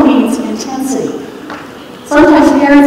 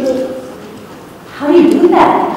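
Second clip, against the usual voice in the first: higher, puzzled rising question; mildly confused; 4 semitones higher than usual. Retold or imitated. Magazine writer questioning a parenting tip, mildly confused. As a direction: ask it as if a bit baffled. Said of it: "The writer was a little confused".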